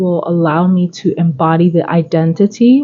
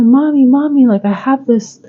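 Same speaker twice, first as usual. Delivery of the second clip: put-on higher child's voice, pleading; child telling mommy about a bad dream, higher and urgent; upset child; 4 semitones higher than usual. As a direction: play her little kid, upset and rushing. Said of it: "and they're like".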